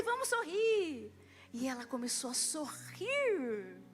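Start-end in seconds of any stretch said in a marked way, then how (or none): 0.0-1.1 cheerful invitation. Retold or imitated. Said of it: "Eu falei".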